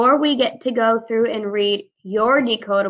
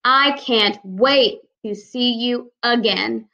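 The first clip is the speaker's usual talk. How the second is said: slow example read; slower than usual. Shown as a demonstration. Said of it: "Here is my example in a sentence".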